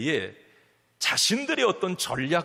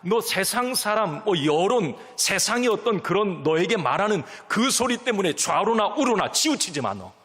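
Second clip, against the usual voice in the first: higher, louder insistent divine voice; God urging Joshua, rising and louder; God speaking; 4 semitones higher, 4 dB louder than usual. Acted. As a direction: insist as God, push each phrase. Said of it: "이런 말씀도 하세요".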